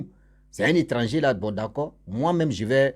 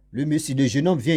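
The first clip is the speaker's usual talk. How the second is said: ordinary talk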